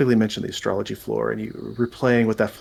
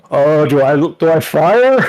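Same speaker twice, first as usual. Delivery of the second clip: strained hesitant question; 4 semitones higher, 9 dB louder, slower than usual. Acted. Arcus straining with firebolt.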